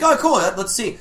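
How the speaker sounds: imitating the comic's sudden eager interest; eager mock voice. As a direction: jump at it like a kid. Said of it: "When I see, like".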